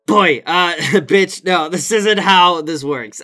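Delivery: fed-up retort. Real, not acted. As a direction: tell him off, sassy and loud.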